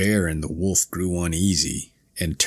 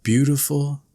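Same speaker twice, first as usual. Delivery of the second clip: soaring, much higher delighted calls; joyful cry; 3 semitones higher than usual. Acted. Lark rising into the sky, joyful high cries. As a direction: sing out the joy from the sky. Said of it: "she ascends high in the air and cries".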